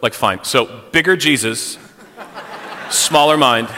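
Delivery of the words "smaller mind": louder, with a laugh; laughing punchline. Real, not acted. Pastor jokes to the congregation, laughing. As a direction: land the joke through laughter.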